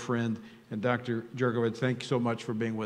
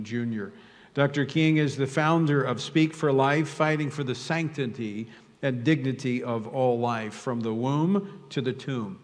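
projected opening, settling into steady announcing; formal introduction; 2 semitones higher, 5 dB louder than usual. Real, not acted. Host introduces Doctor King before prayer, formal announcement. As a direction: read out an honored guest's credentials.

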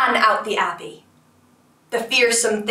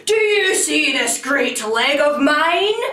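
monster's roar; 5 semitones higher, 3 dB louder than usual. A narrator's reading. Fearsome thing stamps and challenges the tailor, roaring. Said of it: "It roared".

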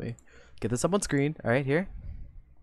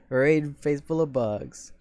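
slow and deliberate; 3 semitones lower, slower than usual. Shown as a demonstration. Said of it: "slowly reads raid phrase".

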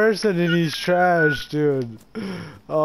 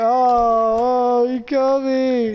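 mocking crybaby; 6 semitones higher, slower than usual. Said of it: "you're like".

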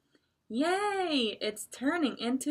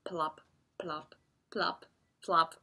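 plop sounds; 4 semitones lower than usual. Shown as a demonstration. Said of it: "it sounded like this".

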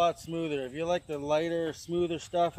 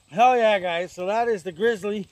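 hyped product plug; 4 semitones higher, 9 dB louder, slower than usual. Acted. Product shout-out.

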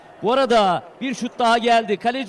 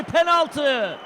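shouted penalty call; sudden high shout; screaming football commentator; 4 semitones higher than usual. Real, not acted. Penalty given in live match.

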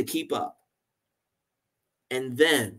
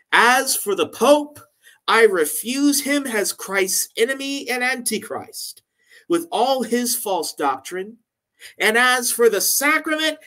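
impassioned reading; 4 semitones higher than usual. Retold or imitated. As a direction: read it like a martyr's defiant speech. Reading Cranmer's defiant last speech.

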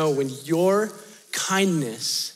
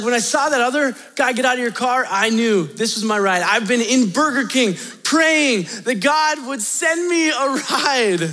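pumped; 5 semitones higher than usual. Retold or imitated. Homeless man explains his answered prayer to driver, pumped. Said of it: "It's somebody who is pumped".

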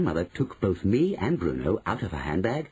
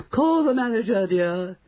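very high, loud, indignant wife; shrill, haughty alarm; outraged demand; 13 semitones higher, 4 dB louder than usual. Acted. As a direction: summon help in a high affronted cry. Mrs Jenkins demands help.

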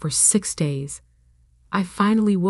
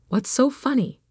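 confused; 7 semitones higher than usual. A narrator's reading. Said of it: "clearly confused".

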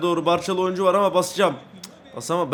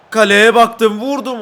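loud, raised call as the shot goes; shouted play call; 5 semitones higher, 9 dB louder, slower than usual. Real, not acted. Gamer lining up a shot on goal, loud excited call. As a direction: call it out hard.

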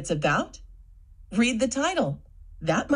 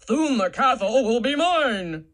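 scheming villain; 3 semitones higher than usual. Shown as a demonstration. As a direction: plot the castle's capture. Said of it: "say it in a voice to match who's talking".

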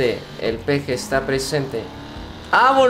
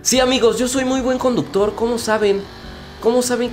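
mock boastful high voice; 10 semitones higher than usual. Brags about his driving.

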